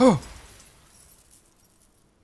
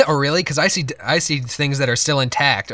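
mocking imitation; 3 semitones higher, 4 dB louder than usual. Mocking partner's words, laughing.

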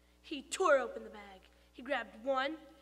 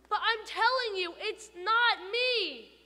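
protesting; 8 semitones higher, 8 dB louder than usual. Acted. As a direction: insist on your innocence. Protesting to the teacher.

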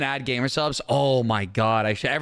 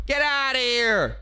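higher, slower get outta here; 5 semitones higher, slower than usual. Shown as a demonstration.

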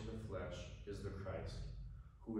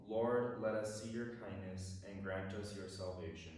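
solemn psalm refrain; psalm response. Acted. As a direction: lead the refrain for the people. Cantor leads responsorial psalm.

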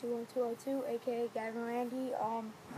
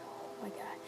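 in ice cold water; 2 semitones lower, 9 dB quieter than usual. Real, not acted. Still freezing at the end.

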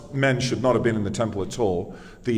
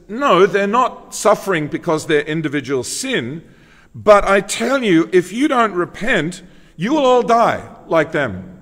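emphatic preacher quoting a stern warning; 5 semitones higher, 3 dB louder than usual. Retold or imitated. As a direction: press each clause home as a solemn warning. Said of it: "here he's very emphatic".

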